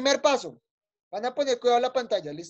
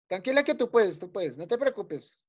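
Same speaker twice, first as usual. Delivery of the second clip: softer, lower encouraging tone; gentle reassurance; 3 semitones lower, 4 dB quieter than usual. Real, not acted. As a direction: reassure a hesitant pupil softly. Reassuring a hesitant pupil. (tranquilizando con suavidad)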